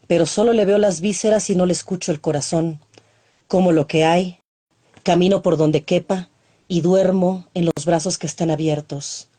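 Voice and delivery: a poet reading her own verse; poem recital. Acted. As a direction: recite it intimately, letting lines breathe.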